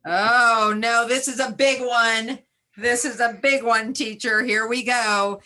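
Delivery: mock worry over a big challenge, then game for it; playful student dismay. Pretend student to teacher facing a big word, excited mock dismay.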